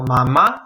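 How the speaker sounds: Mamá with the voice rising on the last syllable; Mamá, low start and rising end; rising final stress. Shown as a demonstration. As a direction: lift the pitch on the final má of Mamá. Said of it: "mi tono de voz sube".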